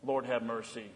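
low, hushed cry for mercy; soft plea for mercy from the congregation; quiet liturgical plea. Acted. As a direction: pray it softly like the liturgy. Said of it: "we cry out as we do in our liturgy".

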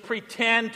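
deliberate emphasis on pretend; stress on pretend. Real, not acted. Pastor joking about his sports abilities, stress on pretend. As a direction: lean on the word pretend. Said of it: "I emphasize the word pretend".

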